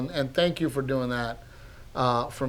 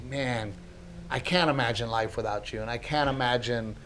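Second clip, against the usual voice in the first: heartfelt; 2 semitones lower, 6 dB quieter than usual. Real, not acted. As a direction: say it quietly to a loved one, moved. Imagines telling wife he needs her.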